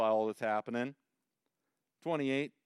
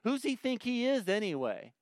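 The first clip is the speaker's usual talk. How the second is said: indignant; 8 semitones higher than usual. Acted. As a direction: question it in offended disbelief, pitched up. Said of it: "here's his response".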